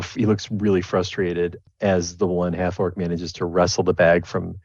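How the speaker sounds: normal talking voice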